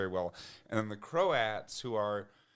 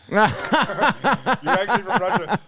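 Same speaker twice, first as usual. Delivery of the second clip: repeated through laughter, higher and louder; laughing repeat; 10 semitones higher, 13 dB louder, slower than usual. Real, not acted. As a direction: crack up as you say it again.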